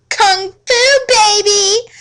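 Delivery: triumphant cry. A narrator's reading. Heroine's triumphant kick cry.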